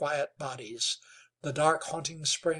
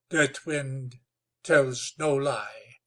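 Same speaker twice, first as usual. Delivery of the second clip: calm; 4 dB louder, slower than usual. Acted. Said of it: "said the chief calmly".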